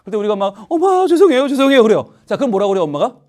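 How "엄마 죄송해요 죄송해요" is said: high, loud mock wail; hammed-up tearful begging; crying apology. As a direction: play a bawling child pleading with mom. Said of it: "막 울고 있으면".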